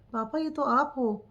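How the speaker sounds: a son suddenly seeing his father's wounds; shocked recognition. Retold or imitated. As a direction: shaken disbelief.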